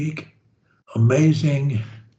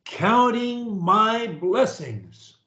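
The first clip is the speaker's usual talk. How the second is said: slow deliberate speech; 4 semitones higher, slower than usual. Shown as a demonstration. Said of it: "Try and do it the way I do it".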